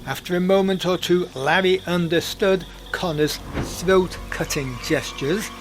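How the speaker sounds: lively storyteller narration; story narration. A narrator's reading. Podcast narrator telling the Banania tale in storyteller style. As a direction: spin the tale for listeners.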